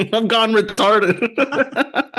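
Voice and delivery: very high, very slow, laughing; tongue on roof of mouth. Pretend. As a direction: drag it out with a stuck tongue. Mocking frozen brain voice.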